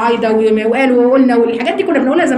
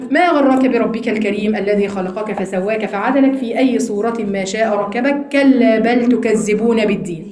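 slow measured tajweed chant of the verse; Quran recitation; 3 semitones lower than usual. Acted. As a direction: recite it like in prayer, drawn out. (تلاوة قرآنية مرتلة)

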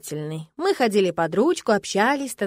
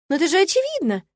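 unflappable; 8 semitones higher, 4 dB louder than usual. Acted. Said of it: "невозмутимо ответила она".

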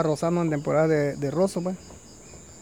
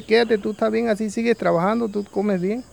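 urging vulture; 5 semitones higher than usual. Acted. Vulture urging farmer to stay.

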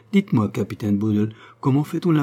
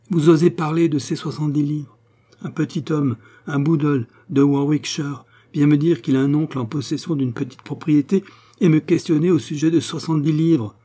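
raised, higher, contemptuous tirade; scornful indignation; 5 semitones higher than usual. Acted. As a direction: pour scorn on him, voice up. Sophie scorns Boodle.

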